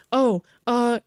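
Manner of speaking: high whiny know-it-all imitation; mock pedant voice. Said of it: "I bet he would say something like".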